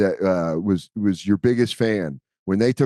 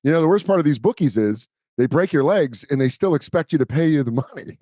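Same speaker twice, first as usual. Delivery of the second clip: Chevy Chase line; 3 semitones higher than usual. Retold or imitated. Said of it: "Chevy Chase's line where he goes".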